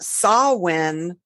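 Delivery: "Samhain" said slowly as SAW-win; alternate pronunciation SAW-win. Shown as a demonstration. Host giving listeners another version, "Samhain" as SAW-win. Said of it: "it's also pronounced".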